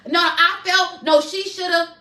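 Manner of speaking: a touch of a self-righteous protest; mock digging in your heels; stubborn insistence. Imitating herself refusing to see her part in the fight, mildly insistent. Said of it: "we cannot sit".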